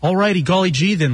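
cheesy clean-cut radio voice; corny wholesome announcer; golly gee white guy. Pretend. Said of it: "that's more like it".

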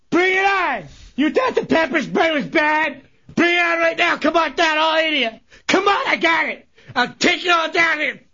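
hammed-up angry rant; mock fighting challenge. Chunks daring the engineers to bring it on, ranting. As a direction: goad them on in mock fury.

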